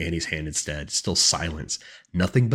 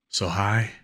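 higher, mimicked sister voice; mimicking sister; 4 semitones higher, 3 dB louder than usual. A narrator's reading. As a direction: imitate her sister's voice. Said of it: "She could mimic Annie's voice".

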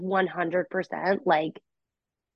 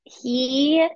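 whispering; 6 semitones higher, 5 dB louder than usual. Real, not acted. Whispered start of story.

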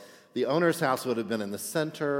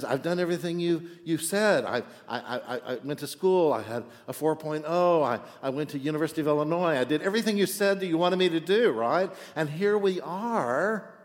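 older son ranting at his father, hammed-up indignation; exasperated son; 5 semitones higher than usual. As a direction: pour out the grievance in a rush. Older son's outburst voiced.

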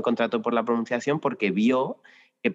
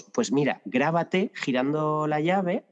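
slow, higher ironic advice; mock teacher advice; 5 semitones higher, slower than usual. Teacher to a driver whose car won't start, mock advice. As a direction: hand out the useless tip with a straight face. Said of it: "Y le decimos".

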